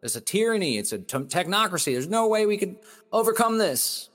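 mock panic. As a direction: act out the doomed panic, hammed-up. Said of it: "Or you could say".

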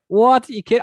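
loud, high-pitched incredulous outburst; acted disbelief. Host retelling his reply to the rival-fan mechanic, acted disbelief. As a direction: blurt it out in mock shock.

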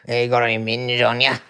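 hammed-up, low British voice; badly faked British accent. Shown as a demonstration. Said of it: "I'll just do a British one".

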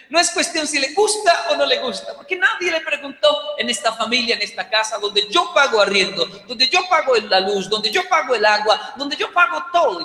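mock-stern rant, hitting yo in every line; scolding mother. Mother scolds the child who won't eat soup, stressing yo. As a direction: stress on yo, hammered each time.

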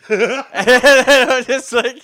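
laughing while telling it; words breaking into laughter; laughing hard, high-pitched. Real, not acted.

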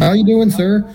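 friendly greeting pitched well up; bright, gentle hello to a stranger; real nice. Retold or imitated. Waking a sleeping homeless man kindly, friendly high greeting. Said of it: "I was real nice".

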